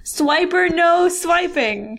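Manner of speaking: put-on high, slow kids' show catchphrase; Swiper no swiping. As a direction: scold the fox like Dora. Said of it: "Dora the Explorer".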